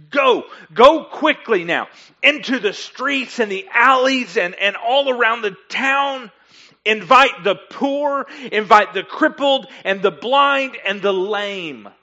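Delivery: acted urgent, angry command; furious master. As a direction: fire off orders as an angry master. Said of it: "was furious".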